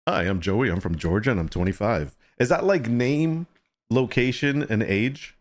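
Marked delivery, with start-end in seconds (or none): 0.1-2.2 lightly voiced lower-pitched self-introduction; mock profile introduction. Voices Joey's dating-profile style introduction.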